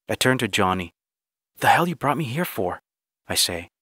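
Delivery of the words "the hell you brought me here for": higher-pitched, irritated question; indignant demand. Acted. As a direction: demand an explanation, mildly angry. Narrator confronts Johnny in dialogue.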